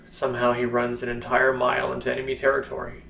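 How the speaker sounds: mounting scorn at the tall tale; mock the heroics with contained anger, then drop off at the end; pissed off. Blind soldier scorning heroic war stories, mildly pissed off. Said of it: "that's when he kinda gets pissed".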